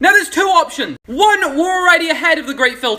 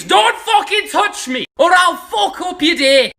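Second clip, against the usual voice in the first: voicing the box; 4 semitones higher, slower than usual. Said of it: "It screams".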